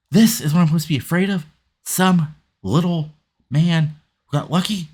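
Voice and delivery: arrogant taunt. Retold or imitated. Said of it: "continues the beatdown and says".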